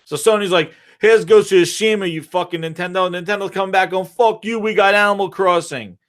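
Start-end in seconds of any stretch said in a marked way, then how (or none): 1.0-3.1 raised-pitch mock neighbour's yell. One game company taunting its rival, mock yelling. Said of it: "they're yelling at each other". 4.1-6.0 high-pitched mock angry comeback; mock yelling. Rival company hollering back across the porch, mock yelling. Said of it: "they're yelling at each other".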